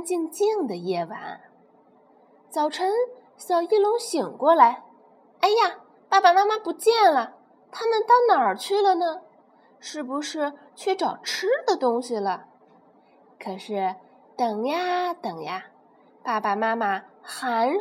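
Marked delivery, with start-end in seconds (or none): 5.4-12.5 high, anxious little voice; a small child calling out in worry; baby dinosaur searching for parents; worried baby pterosaur. Acted. Baby wakes, parents gone.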